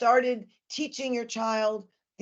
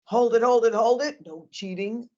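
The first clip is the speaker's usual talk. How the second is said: coaching a deep breath; 3 dB louder than usual. Shown as a demonstration. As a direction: lead a child through the breath, playfully. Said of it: "And then I'll say to the child".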